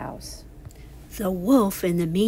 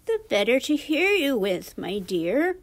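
disguised wolf; 4 semitones higher, 4 dB louder than usual. Acted. Wolf poses as grandmother.

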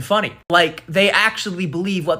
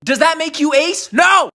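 mock retort; 9 semitones higher, 5 dB louder than usual.

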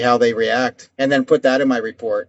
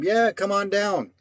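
slow, softer, relaxed invitation; easygoing welcome; 4 semitones higher, 6 dB quieter, slower than usual. Retold or imitated. Landlord inviting the white-sounding caller, easygoing. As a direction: wave the caller in, slow and easy. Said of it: "Call back as a white person".

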